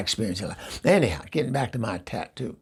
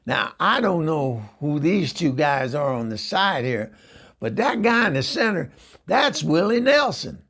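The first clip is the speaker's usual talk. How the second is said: higher, louder, slowing onto the name; stranger's voice; 5 semitones higher, 4 dB louder than usual. Retold or imitated. Stranger names the tattoo's face, proud and higher. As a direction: squint and make a confident reveal. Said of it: "He goes".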